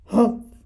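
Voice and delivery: loud sulky humph; sulky grunt. Acted. Brother sulking in the treehouse, grumpy humph. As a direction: grunt it out in a sulk. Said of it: "grunted Brother".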